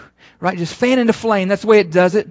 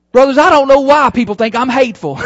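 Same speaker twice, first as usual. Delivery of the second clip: mocking laughing quote; 5 dB louder, faster than usual. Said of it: "And he, he goes".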